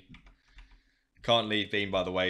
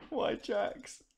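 incredulous; 13 semitones higher, 4 dB quieter than usual. Real, not acted. Repeat incredulity after sigh.

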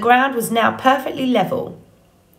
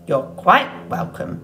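smiling. Acted.

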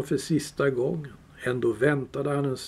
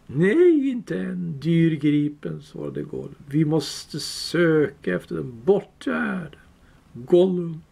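Gollum voice; 2 semitones higher, slower than usual. Acted. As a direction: grieve like a wretched creature. Gollum answering Bilbo.

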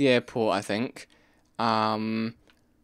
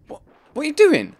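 high, loud disbelieving what; shocked yell; 7 dB louder, faster than usual. Real, not acted. Yelling at the game character.

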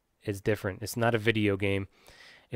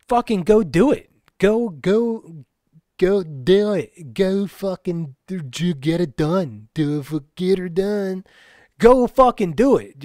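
much higher, loud, slow, hammered out; fierce shout; 7 semitones higher, 7 dB louder, slower than usual. Real, not acted. Vlogger yelling at advice seekers to just go do it. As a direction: bark it like a drill sergeant.

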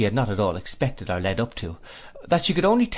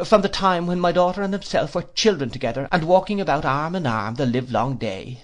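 put-on high, fluttery elderly mother; fussy old lady; 6 semitones higher than usual. A narrator's reading. Old lady voiced in story.

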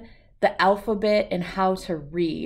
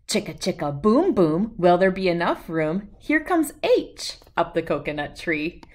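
lively singsong storybook read-aloud; reading to children. A narrator's reading. Host reading an alphabet book to young viewers, singsong and lively. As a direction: read it out to little kids with bounce.

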